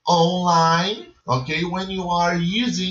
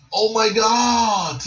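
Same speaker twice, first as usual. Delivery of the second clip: a bright, louder gasp of shock; mock surprise; 5 semitones higher, 4 dB louder than usual. Shown as a demonstration. Teacher demonstrating surprise to students. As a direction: act out being amazed. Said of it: "it means".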